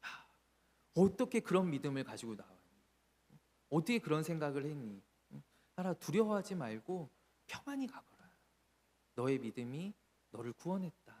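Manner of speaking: tender reassurance. Acted. Jesus praising trembling woman.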